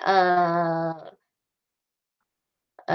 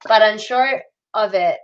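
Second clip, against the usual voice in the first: put-on American accent; slower than usual. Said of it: "forcing that R right in there".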